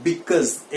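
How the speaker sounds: because said as /bɪkəz/, ending in a z sound; correct pronunciation. Shown as a demonstration. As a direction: model the right way, bikuz. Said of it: "एक बार मेरे साथ बोलिए". (सही उच्चारण, बिकॉज़)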